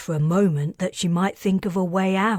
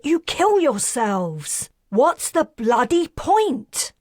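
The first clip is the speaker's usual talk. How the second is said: raised, much higher voice, slowing to hammer the last words; furious outburst; 6 semitones higher, 3 dB louder than usual. Acted. Karis rants at Perseus about Polaran stubbornness, furious and raised. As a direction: vent every frustration at the stubborn aliens. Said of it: "Are you angry?".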